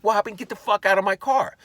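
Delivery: loud, high, outraged retort; acted angry shout. Owner ordering intruder out of car, loud acted fury. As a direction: yell to chase him off.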